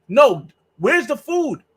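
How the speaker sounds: slowed-down pleading for food; slow insistent plea. Retold or imitated. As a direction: spell it out slowly to a foreigner.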